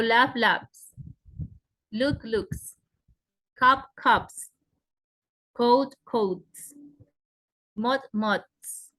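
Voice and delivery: each word, then its plural with crisp s; plural ending as S. Shown as a demonstration. Teacher showing plurals after unvoiced sounds, crisp s endings. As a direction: end "labs", "looks", "cups", "coats", "mods" on a voiceless s. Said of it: "suena como S".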